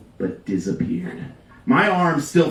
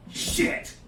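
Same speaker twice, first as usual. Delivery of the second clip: breathy panicked whisper; a muttered inner swear; whispered curse; 10 dB quieter than usual. Retold or imitated. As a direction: hiss it under your breath in panic.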